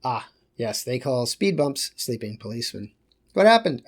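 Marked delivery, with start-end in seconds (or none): 3.3-3.8 higher, louder, acted concern; alarmed question. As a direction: ask in mock alarm what went on. Acted exchange about sleeping policeman.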